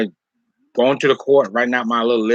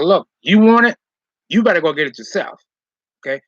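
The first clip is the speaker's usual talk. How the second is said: sharp retold retort; 3 semitones higher than usual. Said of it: "I told him".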